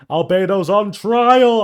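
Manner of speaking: high, slow shocked shout; excited shout. Real, not acted. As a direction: cry it out in disbelief. Shock at story reveal.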